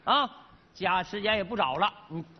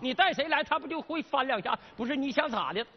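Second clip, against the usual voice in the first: confrontational; 6 semitones higher than usual. Acted. Salesman squares up to customer.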